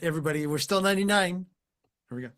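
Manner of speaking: ordinary talk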